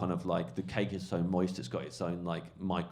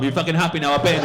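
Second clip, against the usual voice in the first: very loud, high mock-angry shout; exasperated surrender; 8 semitones higher, 15 dB louder, faster than usual. Heckler showing comic the bitten mime cake, loud exasperated shout. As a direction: imitate a worn-down heckler yelling.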